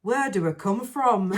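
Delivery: northern English accent, lightly put on. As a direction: say it like a Yorkshire lad. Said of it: "in his northern accent".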